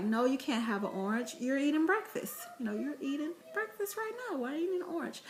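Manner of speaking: high, fast mock scolding of a son; a hammed-up mommy telling off her boy; mock stern mom. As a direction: play the nagging mom refusing an orange. Mom scolding son over breakfast.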